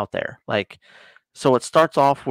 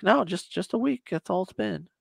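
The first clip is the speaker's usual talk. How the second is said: retold Russian guy; 8 semitones higher, 5 dB quieter than usual. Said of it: "He's like".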